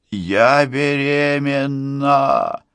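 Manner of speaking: long-drawn, high cry; slow wailing outburst; yelling, voice breaking. A narrator's reading. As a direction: stretch the words into a high, desperate yell. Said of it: "орёт им Кейси срывающимся голосом".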